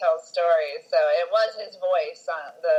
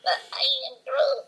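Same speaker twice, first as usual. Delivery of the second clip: slow, higher Groot impression; 6 semitones higher, slower than usual. Friend imitating Vin Diesel's storytime Groot. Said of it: "I read stories to my kids like this".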